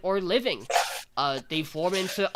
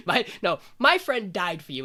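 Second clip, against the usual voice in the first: higher, louder insistent correction; mock indignation; 3 semitones higher, 5 dB louder than usual. Anna accuses Adonis over her friend's death, mock indignant. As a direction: imitate an aggrieved, emphatic retort.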